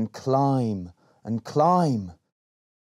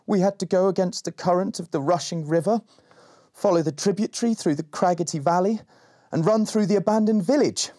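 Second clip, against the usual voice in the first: put-on eager boy; 8 semitones higher than usual. Berry recounts the journey.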